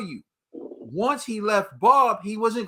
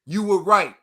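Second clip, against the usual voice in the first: mock apology; 6 dB louder, slower than usual. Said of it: "the acknowledgement that's like".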